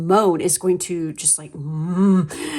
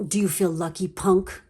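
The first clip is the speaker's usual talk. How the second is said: Dirty Harry; 5 dB quieter than usual. Retold or imitated. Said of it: "I am Dirty Harry when I am pissed off".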